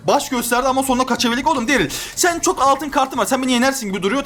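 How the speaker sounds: normal talking voice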